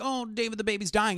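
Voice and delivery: retold freaking out. Freaking-out mother telling David about the baby, mildly panicked. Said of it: "she's freaking out".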